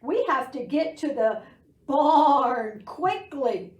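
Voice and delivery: loud, slowing sheep plea; urgent sheep. Acted. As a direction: hurry them like a worried sheep. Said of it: "the sheep bleated".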